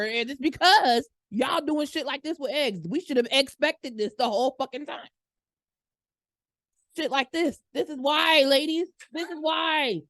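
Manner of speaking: high-pitched, hammed-up scolding rant; mock outrage. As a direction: scold all the ladies in mock despair.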